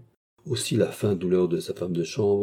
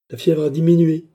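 loud, high solemn pronouncement; 8 semitones higher, 8 dB louder than usual. A narrator's reading. False doctor reporting to the maid, solemn. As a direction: pronounce it like a grave physician. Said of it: "continua le médecin d'un ton solennel".

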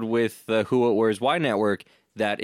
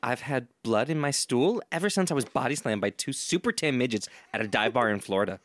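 put-on lightly done Valley Girl accent; a hint of Valley Girl lilt; 3 dB quieter than usual. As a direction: try a mild, matter-of-fact Valley Girl. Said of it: "Valley Girl".

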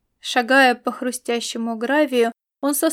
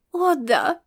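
higher-pitched, savouring yes; delighted exclamation; 4 semitones higher than usual. A narrator's reading. Aelita praising the tasty treat, delighted exclamation. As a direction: exclaim it with relish. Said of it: "воскликнула Аэлита".

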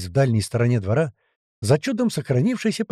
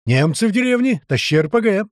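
high, raised alarm shout; yelling; 7 semitones higher, 4 dB louder than usual. A narrator's reading. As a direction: shout urgent orders. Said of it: "заорал мамуля". (крик тревоги)

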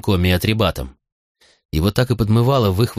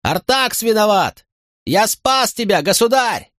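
high slow frantic shout; panicked high shout of blame; shouting denial; 13 semitones higher, slower than usual. A narrator's reading. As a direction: yell the counter-accusation. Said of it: "закричал Тинкоми".

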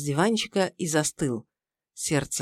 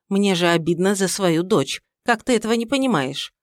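reproachful mother-in-law. Acted. Mother-in-law scolds son-in-law.

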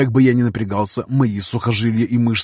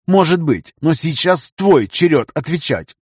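cold reply; 5 semitones higher than usual. Acted. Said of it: "холодно ответил я".

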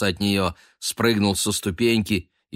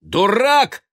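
very high, loud angry shout; furious cry of one word; 8 dB louder than usual. A narrator's reading. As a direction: yell it as you lunge. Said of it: "крикнул Бен".

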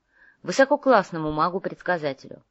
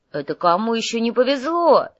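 higher, louder affronted retort; indignant; 6 semitones higher, 6 dB louder than usual. A narrator's reading. Hungry Nav retorts to his partner's complaint, indignant. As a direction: protest as if insulted. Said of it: "возмутился голодный Нав".

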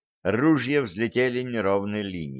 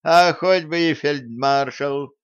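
defiant cut-back, pitched up; curt retort; 4 semitones higher, 4 dB louder than usual. A narrator's reading. Someone in the crowd answers the officer, curt retort. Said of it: "отрезал кто-то".

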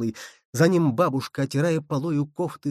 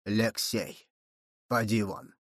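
low muffled command, much softer; muffled order; 4 semitones lower, 6 dB quieter, slower than usual. A narrator's reading. Grandfather sends the boy from the room, dull and muffled. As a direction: send the boy out in a dull, hollow voice. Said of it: "глухо сказал дед".

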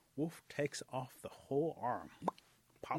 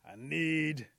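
loud, higher, fed-up outburst; exasperated eagle; 3 semitones higher, 8 dB louder than usual. Acted. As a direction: call out loudly, drawing out the summons. Fed-up eagle calls for panther.

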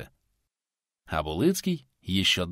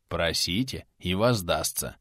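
weighty; 4 semitones lower, 4 dB quieter than usual. Acted. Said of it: "веско отвечал Сергий".

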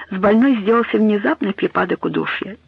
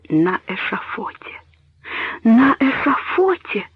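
horrified; 5 semitones higher, slower than usual. A narrator's reading. Daughter learns father was executed.

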